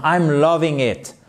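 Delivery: drawn-out, gushing emphasis; emphatic enthusiasm. Shown as a demonstration. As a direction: savour it slowly, like you really love it. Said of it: "afin d'appuyer vraiment que c'est trop bien". (enthousiasme appuyé, en traînant)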